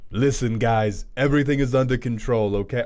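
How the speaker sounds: a faint, loose Trump impression; lightly voiced Trump, half-hearted. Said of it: "I can't do a Trump voice".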